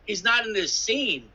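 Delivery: slow, drawn-out mock repeat; slow teasing echo of his words. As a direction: drag it out, mocking the director's excuse. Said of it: "They go".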